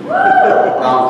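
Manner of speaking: a sudden squeaked no, way up high; jokey falsetto squeal; squeaky no. Pretend. Preacher squeaks a joke at the congregation, high falsetto.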